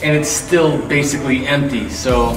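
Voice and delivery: talking in an empty echoing shop; echoey empty room. Real, not acted. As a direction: voice bouncing off bare walls. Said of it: "it's so echoey in here".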